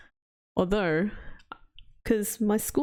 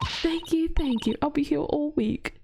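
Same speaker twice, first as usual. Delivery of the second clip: mock stand-up bow; 7 semitones higher than usual. Mock comedian taking a bow.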